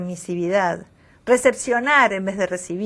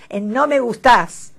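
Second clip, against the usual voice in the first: "no me gustás" slow and louder, no break after "no"; no comma, emphatic; 5 semitones higher, 5 dB louder than usual. Shown as a demonstration. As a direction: press "no me gustás" together, slow and pointed. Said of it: "sin coma luego del no".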